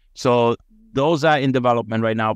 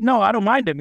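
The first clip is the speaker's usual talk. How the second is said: casual reply; 11 semitones higher, faster than usual. Retold or imitated. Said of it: "I'm like".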